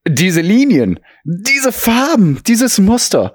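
high, slow swooning over art; gushing admiration. Acted. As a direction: rave about every detail. Sketch, gushing over painting.

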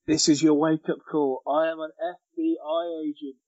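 whiny, nasal-edged voice. Retold or imitated. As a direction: whine it out like a petulant agent. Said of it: "Whiny voice".

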